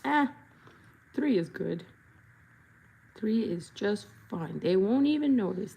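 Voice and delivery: lazy shrug. Retold or imitated. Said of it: "They were like".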